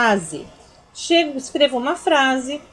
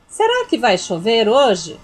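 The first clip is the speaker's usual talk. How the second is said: slow, a little louder asking tune; questioning tone; 4 dB louder than usual. Shown as a demonstration. Teacher reading a sample question aloud, slow asking tune. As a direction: ask it clearly, drawn out. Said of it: "Eu tô fazendo uma pergunta".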